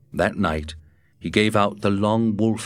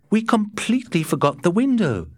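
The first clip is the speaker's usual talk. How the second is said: higher, puzzled Matt voice; 13 semitones higher than usual. A narrator's reading. Matt puzzling over the wolf to Scott, higher and puzzled. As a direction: pitch Matt up, wondering aloud. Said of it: "he said".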